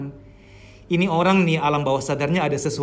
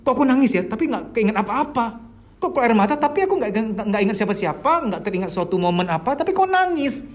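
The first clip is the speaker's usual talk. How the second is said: puzzled client; 4 semitones higher than usual. Pretend. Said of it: "Anda mungkin bingung".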